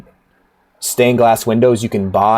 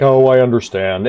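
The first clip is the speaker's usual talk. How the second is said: Satan. Retold or imitated. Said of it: "And he's like".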